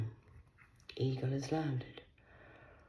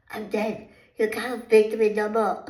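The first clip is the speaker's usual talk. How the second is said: high mock wail; 9 semitones higher, 9 dB louder than usual. Mock dramatic outburst.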